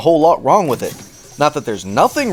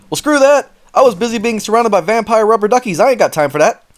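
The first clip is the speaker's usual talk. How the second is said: exasperated rant; 8 semitones higher than usual. Real, not acted. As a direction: vent at the developers. Ranting at the game developers.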